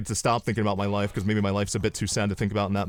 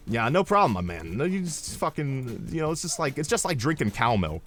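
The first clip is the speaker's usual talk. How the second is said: put-on Atlanta accent; 3 semitones higher than usual. Advisor assures customer it's easy, mock Atlanta accent. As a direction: imitate a guy straight out of Atlanta. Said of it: "he's talking like he's straight out of Atlanta".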